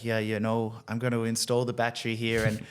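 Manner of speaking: put-on lightly done African accent; a hint of an African accent. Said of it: "I'm just doing my Af-, African accent".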